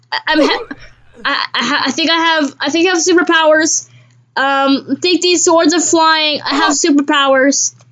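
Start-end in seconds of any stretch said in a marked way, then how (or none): 0.1-3.9 laughing. Real, not acted. Laughing at flying swords.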